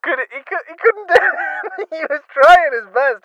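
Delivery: high, loud laughing exasperation; laughing disbelief. Real, not acted. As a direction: crack up at the narrator.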